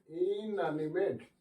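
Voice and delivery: drawn out for the new word; teacher introducing the book's term, slow and careful. Shown as a demonstration. Teacher names the term slowly. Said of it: "teacher introducing new term".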